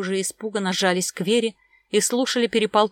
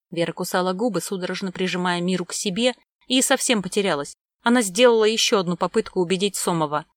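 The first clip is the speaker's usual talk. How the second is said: usual speaking voice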